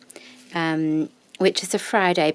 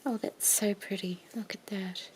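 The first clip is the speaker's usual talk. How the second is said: whisper=40; 8 dB quieter than usual. Real, not acted. Whispering over trim.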